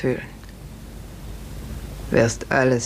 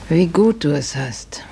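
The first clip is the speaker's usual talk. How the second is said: wistful whisper; 2 semitones higher than usual. Acted. Wehmütige Alte.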